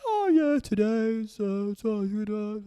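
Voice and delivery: high, tentative imitation of an Indian accent. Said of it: "Indian accent".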